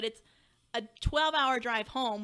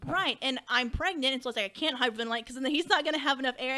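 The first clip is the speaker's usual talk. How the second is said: panicked retelling; 2 semitones higher, 4 dB louder than usual. Retold or imitated. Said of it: "I'm hyperventilating".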